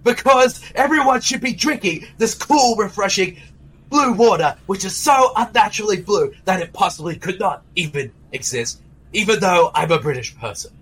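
put-on British accent, pushing the blue water; British accent pitching the drink to everyone; Malcolm McDowell British accent. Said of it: "a more rugged voice with my British accent".

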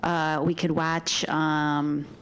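slow upstate New York drawl; upstate New York accent. Shown as a demonstration. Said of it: "my upstate New York accent".

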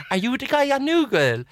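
quoting an English fan; English accent. Retold or imitated. Fan asks again, light English accent. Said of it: "she was English".

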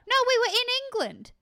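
"we were in England" pitched high and loud; emphatic correction. Real, not acted. Speaker correcting a muddled listener, emphatic "No, we were in England".

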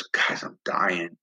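slow, soft and faint; dying man's words. Retold or imitated. Dying inmate telling his friends, faint and slow. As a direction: let it fade out like a man near death. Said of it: "And he goes".

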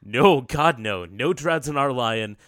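loud rushed string of nos, shaking it off; flustered loud no. Acted. Coach loudly refusing the player's lion idea, flustered. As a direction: shut the idea down fast and loud.

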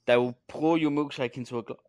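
talking through a hiccup; hiccuping mid sentence. Real, not acted. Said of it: "Sorry, I hiccuped".

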